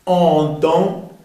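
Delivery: "entend" as an-tan, both nasal; slow "entend" with two nasal AN sounds; no N closure in either half of "entend"; two nasal vowels. Shown as a demonstration. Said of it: "dos sonidos en".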